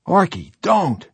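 high, loud warning yell. Acted. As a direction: shout to stop him. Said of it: "he yelled".

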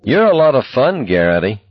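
high, swooping mock praise; exaggerated false delight; sarcastic. A narrator's reading. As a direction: praise him sarcastically, pitched well up. Sarcastic comeback to curt reply.

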